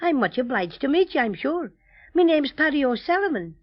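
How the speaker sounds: lightly Irish toy bear; Irish accent. Acted. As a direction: speak with a genial Irish lilt. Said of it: "That sounds Irish".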